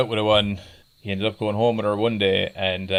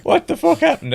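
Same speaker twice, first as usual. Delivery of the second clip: sudden high shocked outburst; shocked yell; 4 dB louder than usual. Retold or imitated. Friend shouts as the buddy leaps in. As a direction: blurt it out in shock.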